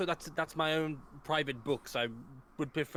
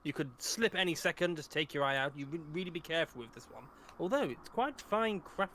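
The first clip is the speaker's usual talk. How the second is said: calm professor voice. Acted. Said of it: "cross-eyed looking at".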